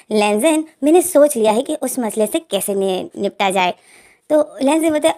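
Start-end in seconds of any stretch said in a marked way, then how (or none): 0.1-3.7 slow, sly plotting tone; devilish scheming. Acted. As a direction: savor the scheme like a little villain. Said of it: "एक devil smile देता है".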